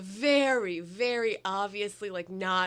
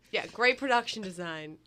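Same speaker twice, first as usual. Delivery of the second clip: sarcastic; 3 semitones lower, 3 dB quieter than usual. Real, not acted. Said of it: "That was sarcasm".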